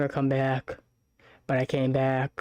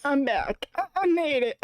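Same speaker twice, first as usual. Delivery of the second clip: excited; 8 semitones higher than usual. Real, not acted. Triumphant return, excited greeting.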